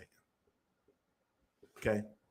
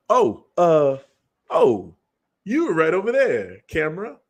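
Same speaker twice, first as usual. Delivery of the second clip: mock Will Smith; 5 dB louder than usual. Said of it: "Let me do my Will Smith impression".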